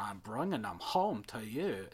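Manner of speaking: mock muddled Germanic-Irish film accent; Doctor Pinterschloss. Host quoting the Addams Family film, weird Germanic-Irish accent. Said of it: "it's weirdly Dutch, Germanic, come Irish".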